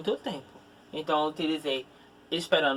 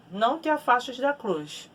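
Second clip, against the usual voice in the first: slow example read; 6 semitones higher than usual. Shown as a demonstration. Teacher reads the example to the class, slow and deliberate. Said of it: "Quando a gente fala".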